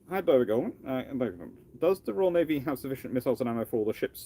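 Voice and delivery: ordinary delivery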